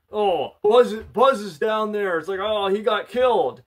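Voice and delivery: high, loud, distressed cry of grief; lightly acted panic over a friend's death; upset. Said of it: "gets all upset".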